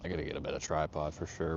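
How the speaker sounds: whispered under his breath, no voice; a disgusted aside only he should hear; muttered gripe. Real, not acted. Streamer griping to himself about his cheap tripod, whispered.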